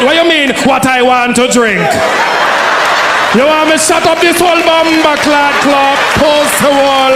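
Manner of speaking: hammed-up Jamaican outrage, shouted; mock angry Jamaican shout. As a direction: snap back like an offended Jamaican.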